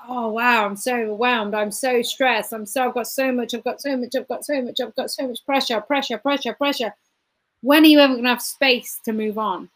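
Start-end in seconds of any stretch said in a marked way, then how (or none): 0.1-6.9 quieter, deflated overwhelmed voice; a touch of weary despair, trailing off; mock overwhelmed. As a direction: play someone sinking under pressure. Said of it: "it's like".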